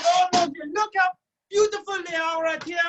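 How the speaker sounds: thrilled French chef exclaiming; excited. Acted. Admiring the coated cheese.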